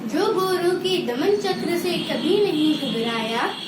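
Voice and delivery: rhythmic, sing-song school recital; poem recitation. Real, not acted. Pupil presenting a Children's Day poem to the assembly, sing-song recitation. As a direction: chant each verse in a lilting, regular beat. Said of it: "एक कविता प्रस्तुत करने जा रही हूँ".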